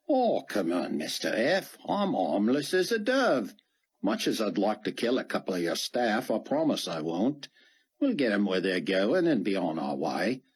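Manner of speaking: casual stranger talking the commander into leaving; lightly voiced folksy helper. Dart to Fortunato, a lightly voiced casual helper.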